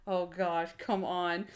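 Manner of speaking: low, soft weary grumble; muted mock exasperation; retold impatience. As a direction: imitate quietly fed-up waiting, under your breath. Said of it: "looking at his watch".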